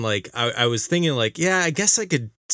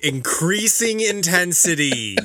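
laughing along; 6 semitones higher, slower than usual. Real, not acted. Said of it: "I am nodding with increasing intensity".

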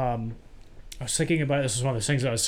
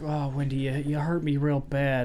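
mock calm plea. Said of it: "you know, calm".

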